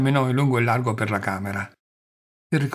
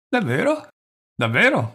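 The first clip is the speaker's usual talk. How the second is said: joyful cry leaping high, then louder; burst of joy; 7 semitones higher, 3 dB louder than usual. A narrator's reading. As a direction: cry out in sudden delight. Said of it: "gridò Pavel Pavlovich in uno slancio di gioia".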